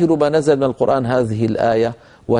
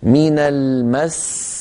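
slow من المس, press on المس and stop on the seen; stress before stopping; much slower than usual. Shown as a demonstration. Teacher shows students how to stop on المس, stressed. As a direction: lean into المس as it closes on a stressed s. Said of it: "لكن لما نقف نقول".

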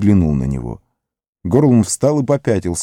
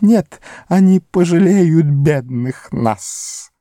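high, slow whimpering creature; pleading Gollum; 9 semitones higher, slower than usual. A narrator's reading. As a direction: beg them not to go, high and whining. Gollum pleading about Mordor.

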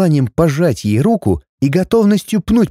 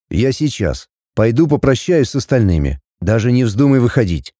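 low man's voice, short command; lower, stern order; curt male order; 5 semitones lower than usual. Acted. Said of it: "с коротким приказом".

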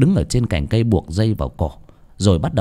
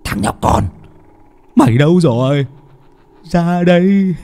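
villain hissing threats, rising higher; menacing hiss; 8 semitones higher, 3 dB louder than usual. A narrator's reading. Knife-wielding chú Hùng hunting a hidden child, menacing hiss. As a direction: hiss it out, climbing to a raised call. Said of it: "Ông rít lên".

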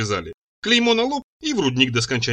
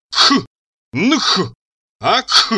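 loud, high guttural snarls; furious growls; 6 semitones higher, 6 dB louder, much slower than usual. A narrator's reading. Hero snarls at the girl in fury, loud guttural growls. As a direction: snarl out raw rage noises. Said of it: "рычал я вне себя от гнева".

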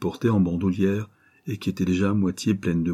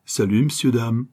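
joyful greeting; 3 semitones higher, 3 dB louder than usual. Acted. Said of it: "lançant joyeux".

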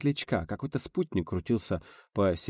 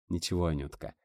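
soft, reassuring words to a loved one; tender inner thought; 3 semitones lower, 6 dB quieter than usual. A narrator's reading. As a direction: think it gently, comforting her. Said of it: "чуя, как теплеет на душе". (тепло и тихо)

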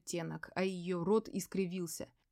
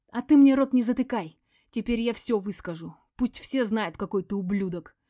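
hysterical yelling; 3 semitones higher, 9 dB louder than usual. A narrator's reading. Veronika refuses to be silenced, hysterical yelling. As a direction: let it all out at him.

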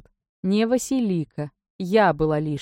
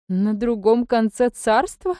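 higher, louder, slow stunned question; aghast disbelief; shocked gasp; 5 semitones higher, 4 dB louder, much slower than usual. A narrator's reading. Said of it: "потрясённо ахнула".

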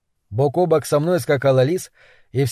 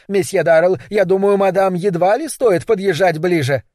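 squeaky; 4 semitones higher, 3 dB louder than usual. A narrator's reading. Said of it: "пропищал мэр".

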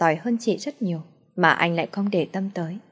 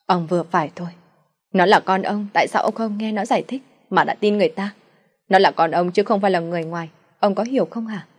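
pleading mother. Acted. Mother defends daughter.

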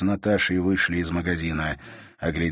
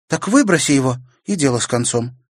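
higher, curt brush-off; dismissive sister; 7 semitones higher, 6 dB louder than usual. A narrator's reading. Sister telling brother to throw the key away, dismissive. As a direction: wave the problem away.

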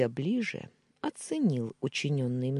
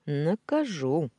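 silky promise; 3 semitones higher, 4 dB louder, slower than usual. Acted. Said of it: "вкратчиво пообещал".

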